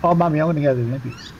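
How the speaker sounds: put-on fast, eager boy announcing his plan; a lightly voiced excited little boy; excited kid. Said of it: "She goes".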